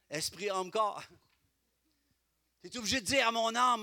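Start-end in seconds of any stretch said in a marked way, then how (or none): none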